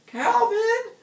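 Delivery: high, loud call down a hole. Acted. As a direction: shout his name down the well. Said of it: "she called".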